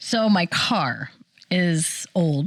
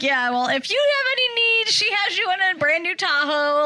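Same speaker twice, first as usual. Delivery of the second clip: high, fast sales pitch; eager saleslady; 10 semitones higher than usual. Retold or imitated. Mom imitating the saleslady, high and fast. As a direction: rush it like an eager caller. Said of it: "and she's like".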